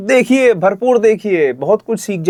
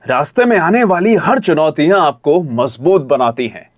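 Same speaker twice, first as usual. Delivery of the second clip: motivational read with lively pitch movement; very expressive. Shown as a demonstration. Coach redoing the student's script line, very expressive. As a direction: lift the challenges, then land the line. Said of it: "It should be very expressive".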